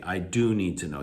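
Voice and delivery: emphasis on "do"; stress on DO. Shown as a demonstration. Teacher demonstrating the helping verb, stress on "do". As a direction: lean on the word "do".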